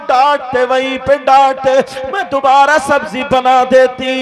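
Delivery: loud, drawn-out tearful plea; tearful pleading. Acted. Hafsa at the Prophet's feet begging forgiveness, tearful. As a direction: plead for forgiveness, drawing out the words. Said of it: "कदम पकड़ के रोने लगती है".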